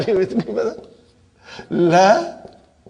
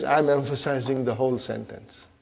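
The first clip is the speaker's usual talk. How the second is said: quiet, lower, mildly voiced innocent; meek innocent character; 4 semitones lower, 6 dB quieter than usual. Harmless lam introduces itself to the sentence, meek and innocent. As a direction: say it small and harmless. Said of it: "uh, very innocent".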